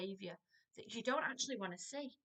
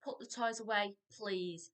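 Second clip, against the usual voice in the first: firm command. Shown as a demonstration. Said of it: "No, we're gonna be firm".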